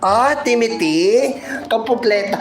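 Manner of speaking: mock calling out. Telling Aling Josie to come home, mock calling out.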